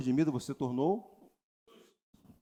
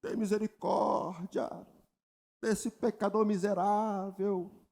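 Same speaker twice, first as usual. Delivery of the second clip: drawn-out, slow imitation of a humble prayer; mock pious prayer; 4 semitones higher, much slower than usual. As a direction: plead slowly like a self-pitying believer. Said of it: "nas suas orações você declara". (imitação lenta de oração piedosa)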